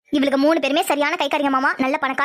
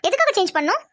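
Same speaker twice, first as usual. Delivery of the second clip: indignant disbelief; 5 semitones higher than usual. Acted. Wife indignant at being moved rooms.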